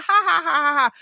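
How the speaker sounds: staged ha-ha laugh; mocking laughter. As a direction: laugh along in mockery, hammed-up. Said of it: "the laughter keeps getting".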